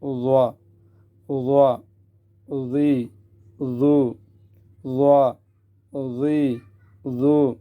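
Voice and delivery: thick dh at the teeth; tongue-tip heavy zaa. Shown as a demonstration. Teacher contrasts with Daad, heavy dh at teeth. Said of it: "زبان کا سرا دانتوں کا سرا".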